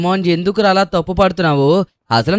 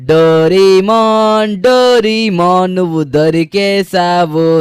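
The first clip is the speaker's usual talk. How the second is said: drawn-out call; much slower than usual. Acted. Seeker calls out, found him.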